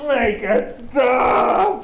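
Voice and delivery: slow, dragged-out groan of a plea; exasperated plea. Acted. Gorgalax fed up with the fake Aussie accent, slow exasperated plea. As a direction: beg for it to end.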